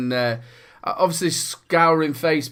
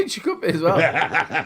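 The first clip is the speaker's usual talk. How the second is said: laughing; slower than usual. Real, not acted. Laughing at the joke.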